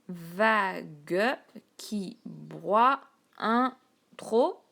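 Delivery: teacher marking the syllables. Shown as a demonstration. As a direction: count it out loud. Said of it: "vous avez d'abord à compter les syllabes".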